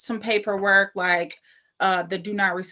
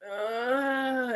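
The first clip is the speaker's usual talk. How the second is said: imitated soft waking groan, higher; groggy groan; 4 semitones higher, 6 dB quieter than usual. Patient pretending to wake from surgery, soft mock groan. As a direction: groan faintly as if coming round. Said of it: "started, like, to open my eyes".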